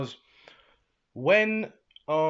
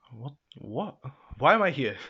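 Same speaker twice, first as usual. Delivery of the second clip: mock bewilderment. Izu gone back in time, acting bewildered. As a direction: imitate someone baffled, pausing between questions. Retold confusion after time loop.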